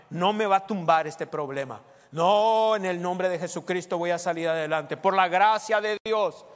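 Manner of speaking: defiant faith shout. Acted. Pastor voicing a believer who refuses to fall, shouting defiantly.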